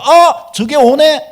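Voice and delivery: high, loud, drawn-out acted discovery; startled realization. Believer noticing where the attack comes from, loud startled realization. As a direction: call it out as if just spotting it. Acts out spotting the devil's attack.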